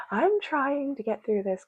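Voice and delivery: tearful chuckle; laughing through tears. Real, not acted. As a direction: push through the crying with a laugh. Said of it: "Still can't stop crying".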